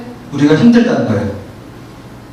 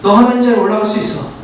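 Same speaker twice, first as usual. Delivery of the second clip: whispering temptation; 4 semitones higher than usual. Acted. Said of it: "이렇게 속삭인다는 거예요".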